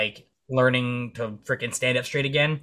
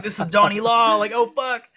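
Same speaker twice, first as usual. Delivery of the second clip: much higher, squeaky freaked-out voice; mock panic; 9 semitones higher, 5 dB louder than usual. Marine fearing the sheriff, squeaky mock panic.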